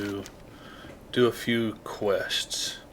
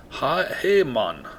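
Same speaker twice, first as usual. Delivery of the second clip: attempted Jamaican accent; 3 semitones higher, slower than usual. Shown as a demonstration. Player practising the accent, badly faked Jamaican. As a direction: try out a Jamaican greeting. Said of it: "It's supposed to be Jamaica".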